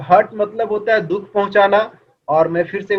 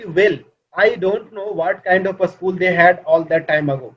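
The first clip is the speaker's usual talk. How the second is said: very slow, word-by-word reading; textbook reading aloud; much slower than usual. Acted. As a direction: read it out slowly for a class to follow. Reads textbook line aloud. (धीमे-धीमे पाठ पढ़ते हुए)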